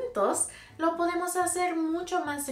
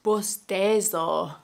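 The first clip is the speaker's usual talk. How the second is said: yawning; 3 semitones lower, 5 dB louder, slower than usual. Shown as a demonstration. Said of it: "Esto es un bostezo".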